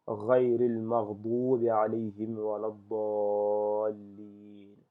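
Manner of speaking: measured recitation with sustained long vowels; Quranic recitation. Shown as a demonstration. Teacher reading Al-Fatiha correctly for learners, measured recitation. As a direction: recite the sura evenly, holding the long syllables. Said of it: "lire, euh, correctement la sourate Al-Fatiha".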